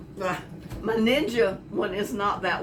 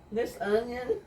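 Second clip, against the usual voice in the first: teary laugh; 3 semitones higher than usual. Real, not acted. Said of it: "I'm crying".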